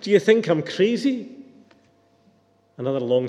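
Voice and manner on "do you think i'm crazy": raised, indignant question; mild distraught yell. A narrator's reading. Distraught man refusing to let go, mildly yelling. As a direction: protest in a higher, lightly yelled voice. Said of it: "yelled the distraught man".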